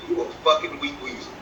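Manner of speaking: under the breath, voiceless; hushed imagined retort; muttered insult. Retold or imitated. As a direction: mutter the insult almost silently. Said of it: "I think he wanted to say".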